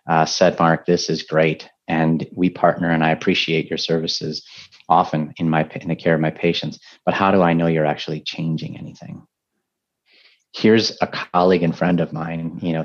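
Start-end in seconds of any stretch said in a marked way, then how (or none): 0.6-9.2 a light hint of a German accent. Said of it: "in a deep, thick German accent".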